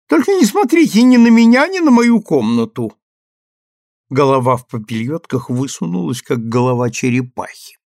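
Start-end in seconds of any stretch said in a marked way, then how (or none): 0.1-2.9 high, loud flustered call; high excited call. Acted. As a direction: call out, half-dressed and flustered. Ruth calling from her room.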